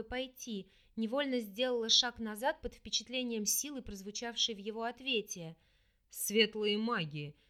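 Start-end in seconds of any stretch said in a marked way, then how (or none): 6.1-7.4 contemptuous. Acted. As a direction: spit the words out in disgust. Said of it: "презрительно произнёс тёмный, словно выплюнул".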